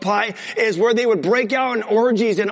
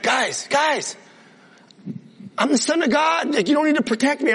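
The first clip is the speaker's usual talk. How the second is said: mock exasperated; 6 semitones higher than usual. Jesus calms his disciples.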